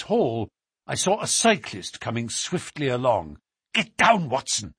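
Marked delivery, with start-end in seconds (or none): 3.7-4.7 urgent cry. Acted. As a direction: warn him down fast. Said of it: "cried Holmes".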